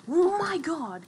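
high, loud, slow oh my god; exasperated. Real, not acted. Gamer exasperated at a thirsty opponent, high drawn-out cry. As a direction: drag it out in disbelief.

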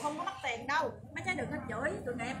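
ordinary talk, nothing marked

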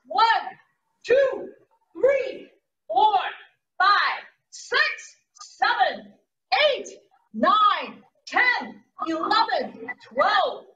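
counting through a held plank; holding a plank. Real, not acted. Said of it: "Let's do it again".

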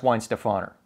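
Weinstefaner as wine-steh-FAH-ner; corrected pronunciation. Retold or imitated. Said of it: "It's actually pronounced".

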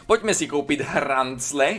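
slow, playful stretch on "hrancle"; drawn-out repeat. Pretend. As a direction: draw out "hrancle" slowly for comic effect. Repeats it with funny drawl. (protáhle vyslovené „hrancle“)

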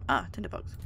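low, muttered discovery; low mumble. Real, not acted. Finds a tinderbox.

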